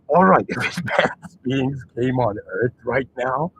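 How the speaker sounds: fighting giggles as you speak; talking through laughter. Real, not acted. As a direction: laugh your way slowly into it. Cracking up at own joke.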